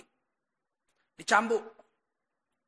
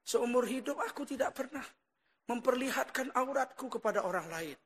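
soft, restrained plea to God; retold tearful prayer; 5 dB quieter than usual. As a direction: plead quietly, without sobbing. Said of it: "disitulah dia menangis". (doa lirih memohon kepada Allah)

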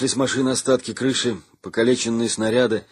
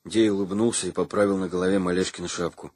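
usual speaking voice

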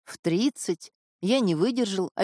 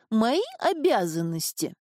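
squeaky mocking voice; 2 semitones higher than usual. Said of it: "передразнил писклявым голосом".

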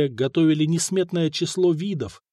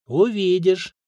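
higher, teasingly withheld answer; mysterious; 4 semitones higher, slower than usual. A narrator's reading. Kosta holds back the job from Mikha, mysterious. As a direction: keep it enigmatic. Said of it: "загадочно посмотрел на него Коста".

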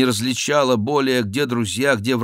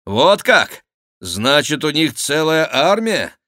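удивлённый возглас; 4 semitones higher, 4 dB louder than usual. Acted. Удивление при виде подкрепления.

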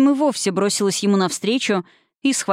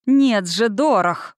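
exploding in anger; 2 semitones higher, much slower than usual. Acted. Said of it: "взорвался капитан".

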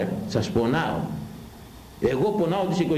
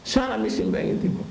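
higher, sneering repeat; mocking high voice; 10 semitones higher than usual. Repeats the mock. (ψιλή κοροϊδευτική επανάληψη)

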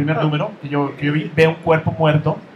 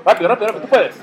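quick, high, pushy encouragement; urging; 5 semitones higher, 4 dB louder, much faster than usual. Real, not acted. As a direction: hurry them along, cheering. Urging a friend to answer. (apurando con entusiasmo)

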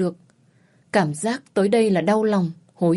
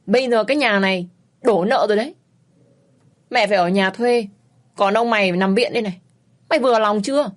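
louder, bitter accusing mother; angry, loud; 4 dB louder than usual. Acted. Mother telling daughter the family is ruined, loud and bitter. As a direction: throw the debts in her face. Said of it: "tức tối, nói lớn".

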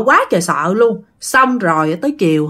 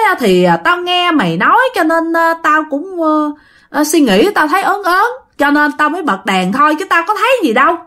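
higher, halting, sheepish excuse full of er-s; 6 semitones higher than usual. Retold or imitated. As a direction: stammer your way through an embarrassed excuse. Brother hesitantly admits fear. (giọng cao, ấp úng, ngượng ngùng bào chữa)

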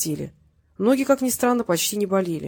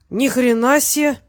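surprised exclamation; 5 semitones higher, 5 dB louder, slower than usual. A narrator's reading. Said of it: "приветствовал сосед".

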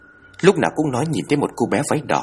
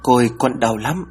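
slow, lightly voiced small girl in pain; a hint of a ghost child whimpering; possessed medium speaking as a hurt little girl, pleading; shrill child voice; 3 semitones higher than usual. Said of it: "the thé như trẻ con".

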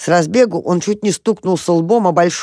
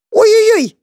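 a much higher, louder yelp of panic; frantic cry; 6 dB louder than usual. A narrator's reading. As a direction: shriek it while flailing in the air. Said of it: "закричал он".

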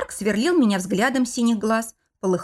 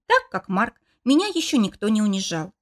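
usual speaking voice

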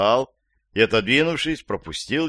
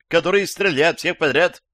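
high, loud stammering alarm; panicked; 7 semitones higher, 4 dB louder than usual. A narrator's reading. Old woman tells police a killer is after her, panicked. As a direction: stumble over the words in high-pitched panic.

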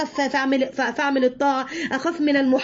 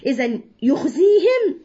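normal talking voice

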